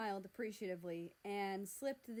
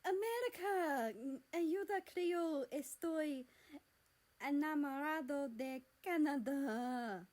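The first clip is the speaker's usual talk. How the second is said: high, loud pleading Spanish; desperate Spanish plea; 6 semitones higher, 6 dB louder than usual. Acted. Mexico begging America for help, loud and desperate in Spanish. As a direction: blurt the confession in panic.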